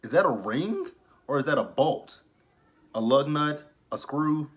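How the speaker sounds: high, squealed outrage at the ring; shocked disbelief. Real, not acted. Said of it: "I'm like".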